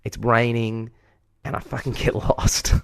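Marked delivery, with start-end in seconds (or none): 1.4-2.7 laughing through the confession; a real laugh breaking into the word. Real, not acted. Laughing at own misadventure.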